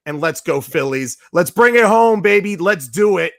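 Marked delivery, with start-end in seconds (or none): 1.3-3.3 higher, louder rally shout; hyped up. Real, not acted. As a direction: fire up the fans. Rallying fans at sign-off.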